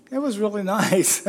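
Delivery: laughing through the words. Real, not acted. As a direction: breaks into a laugh on "really". Corrects the joke, laughing.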